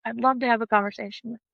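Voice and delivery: softly welcoming, a little quiet. Retold or imitated. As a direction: greet her gently, soft and kind. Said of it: "It was literally like".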